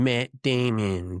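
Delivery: a drawn-out, slow Matt Damon name call. Retold or imitated. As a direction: stretch the name out slowly like a movie line. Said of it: "and saying".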